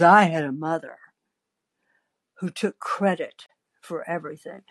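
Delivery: self-assured, deliberate delivery; very confident. Acted. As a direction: state it with settled confidence. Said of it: "then she gets very confident".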